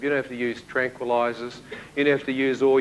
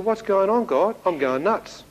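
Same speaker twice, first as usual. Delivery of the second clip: bewildered plea; 5 semitones higher, slower than usual. Retold or imitated. Retold bewildered plea to God.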